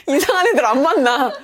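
loud, high, through laughter; laugh-filled exclamation. Real, not acted. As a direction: burst out laughing while saying it. Laughs at own extreme method.

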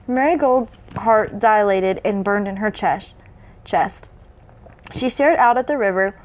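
measured read-aloud narration; story narration. A narrator's reading.

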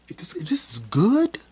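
high breathless whisper; awed whisper. Pretend. Vlogger whispering disbelief about a movie, high hushed.

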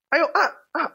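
high coaxing sounds, lightly voiced mum; coaxing mother. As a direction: coax a fussy kid to eat. Mother coaxing child to eat. (ibu membujuk anak makan, nada tinggi)

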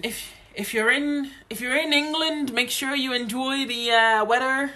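put-on Scottish accent. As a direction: fake Scots lilt. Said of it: "trying to do a Scottish accent".

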